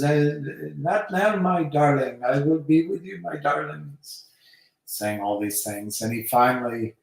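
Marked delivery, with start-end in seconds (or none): 0.0-4.0 higher, lightly acted Clouseau voice; Clouseau putting her off. Nervous Clouseau stalling his eager lover, lightly acted flustered voice. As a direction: stall her in a raised, put-on voice. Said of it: "He says".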